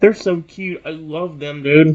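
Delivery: ordinary delivery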